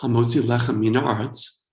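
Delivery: put-on routine Hebrew blessing in an American accent; bad American accent. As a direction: rattle off the blessing with American vowels. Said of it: "in my bad American accent".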